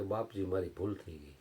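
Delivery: soft, hushed confession; meek apology. Acted. Old man apologizing to the saint, soft and meek. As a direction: admit the fault quietly, head bowed.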